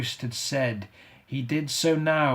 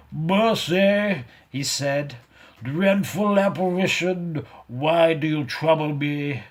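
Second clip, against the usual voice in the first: put-on raised, pleading old man; frightened plea; 4 semitones higher, 5 dB louder than usual. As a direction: beg the apparition for mercy. Good terrified, on his knees.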